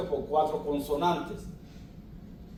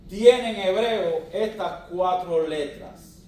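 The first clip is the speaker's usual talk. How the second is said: slow teaching; 3 semitones higher, 6 dB louder, slower than usual. Shown as a demonstration. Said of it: "slow emphatic teaching".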